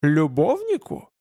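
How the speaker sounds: slow, self-satisfied taunt; slow, gloating question; smug. A narrator's reading. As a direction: draw out the insinuation smugly. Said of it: "явно самодовольно продолжил".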